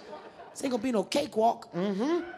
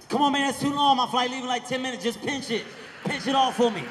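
pushy fan; 3 semitones higher, 3 dB louder than usual. Retold or imitated. Fan begging him to hurry.

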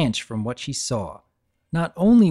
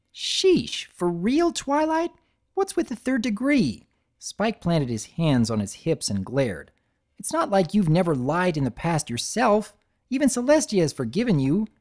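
high exasperated retort; lightly voiced cheeky dragon talking back; Spike, defiant; 6 semitones higher than usual. Spike talking back to Twilight, defiant.

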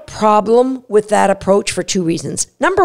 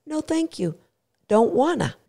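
bored dog voice; 3 semitones higher, 8 dB quieter than usual. Acted. Dog uninterested, walks away from training.

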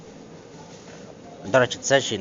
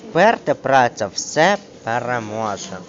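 slow and louder "вперта праця все переможе"; phrasal stress; 5 dB louder, slower than usual. Shown as a demonstration. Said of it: "Фразовий". (повільно й голосно: "вперта праця все переможе")

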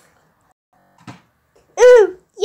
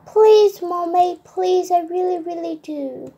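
eager begging. Acted.

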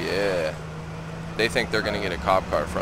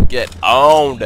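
taunting; 8 dB louder than usual. Real, not acted. Taunting a killed enemy.

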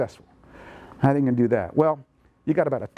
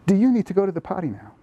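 asking for information, a touch higher and lighter; gentle question; 5 semitones higher than usual. Shown as a demonstration. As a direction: offer it as a real question, not an order. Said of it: "you say".

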